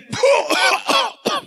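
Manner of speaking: high-pitched gasps from a blow; acted winded gasp. Preacher acts out taking hit after hit, high winded gasps. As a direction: gasp as if just punched.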